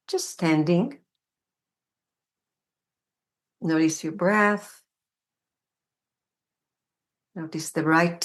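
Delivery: unhurried guidance with long pauses between phrases; guided meditation. Real, not acted. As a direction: guide the body gently, leaving room to feel each step. Leads a standing meditation.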